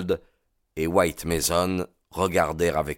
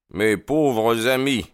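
slow, louder, heartfelt sympathy; cordial sympathy; 5 semitones higher, 5 dB louder, slower than usual. A narrator's reading. Holmes consoling the weary inspectors, slow and sympathetic. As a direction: sympathize slowly and warmly with tired friends. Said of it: "d'une voix empreinte de la plus cordiale sympathie".

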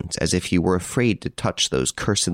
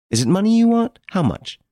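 eager; 14 semitones higher, 4 dB louder than usual. Acted. Banker offers money eagerly.

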